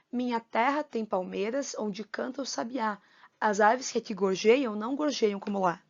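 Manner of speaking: verse read with a measured lilt; reciting for rhythm. Shown as a demonstration. Teacher rereading the first stanza to students, reciting for rhythm. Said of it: "preste atenção na sonoridade dessa estrofe, principalmente no ritmo".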